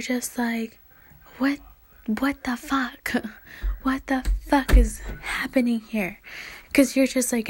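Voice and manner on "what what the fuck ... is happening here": whispered disbelief. Retold or imitated. Incredulous inner voice, laughing.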